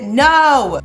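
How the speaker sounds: loud, sharp refusal; telling viewers she wants correcting, a loud no; emphatic no. Real, not acted. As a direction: shut the idea down firmly. Rejecting in-laws' leniency.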